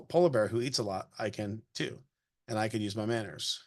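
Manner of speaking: gentle storybook read-aloud voice; reading a picture book aloud. Acted. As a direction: read it to a child, evenly paced.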